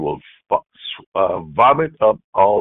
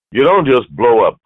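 forceful preaching; 6 semitones higher, 8 dB louder than usual. Acted. Preacher illustrating anger.

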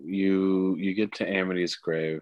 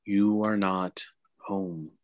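grandmother spirit voice. Acted. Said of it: "She's like".

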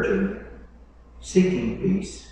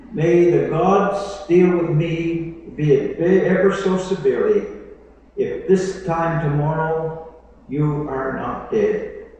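menacing threat; 3 semitones higher, 5 dB louder than usual. Acted. Queen's threat read out.

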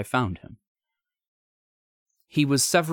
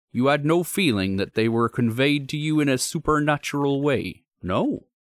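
troubled signalman; 6 semitones higher, 3 dB louder than usual. Acted. Signalman questions visitor.

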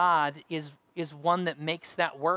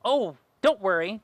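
chirruping Wobbler; 2 semitones higher, 4 dB louder than usual. Acted. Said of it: "chirruped the Wobbler".

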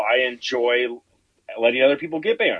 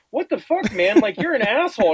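high, laughing what the fuck; mock-offended through a laugh; friend's outrage, imitated while laughing; laughing mock indignation; 10 semitones higher, 3 dB louder than usual. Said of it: "He goes".

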